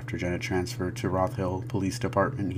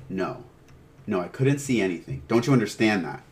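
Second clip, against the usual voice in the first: building exasperation, louder toward the end; shouted; 3 semitones higher, 5 dB louder than usual. Acted. Father to sergeant, frustrated shouting. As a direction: start contained, then burst out in frustration. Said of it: "John shouted".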